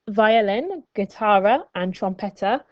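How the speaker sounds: Spanish words in an American accent. Shown as a demonstration. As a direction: say violin, guitarra and trompeta with American Spanish. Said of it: "apologize for my Spanish pronunciation".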